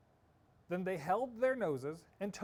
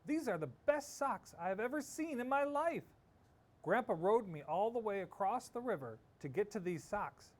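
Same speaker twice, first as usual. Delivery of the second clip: excited gushing; 6 semitones higher than usual. Acted. Tina gushing over socks.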